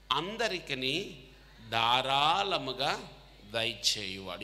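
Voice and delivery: slow, solemn Bible reading; scripture reading. Acted. Preacher reading James to students, slow and solemn. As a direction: read each verse out deliberately. Reads scripture aloud to congregation.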